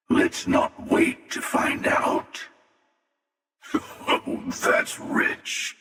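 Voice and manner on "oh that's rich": laugh, then a slow scoffing "that's rich"; mocking laugh. Mocking the player's claim, slow amused scoff.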